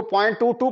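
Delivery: "टू टू" as two separate digits; correct decimal reading. Shown as a demonstration. Teacher showing students the reading, "टू टू" digit by digit. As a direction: read "टू टू" digit by digit after the point. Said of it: "पढ़ना है".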